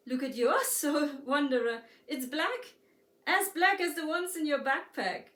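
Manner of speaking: put-on a little girl laughing as she points it out. A narrator's reading. Girl points out black soul.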